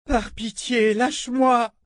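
high pleading cry; high desperate plea; cried out. A narrator's reading. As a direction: beg to be let go, high and strained. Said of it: "cria Elisabeth".

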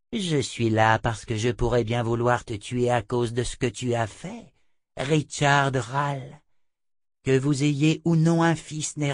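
lightly voiced imperious witch, slowing on the name; scornful seer, lightly put on; haughty seer. Narrator voices Chota the seer.

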